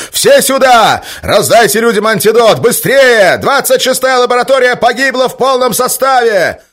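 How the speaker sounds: high, loud panicked shout; Berёzov yelling to stir up the lab staff, loud and high. Acted. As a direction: roar the alarm at the whole lab. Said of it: "заорал Берёзов".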